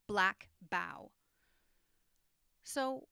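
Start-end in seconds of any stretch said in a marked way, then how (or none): 0.1-1.1 Black bough with both b's punched loud; stressed b sounds. Shown as a demonstration. Teacher showing the alliteration, punching the b sounds. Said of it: "of making two b sounds next to each other".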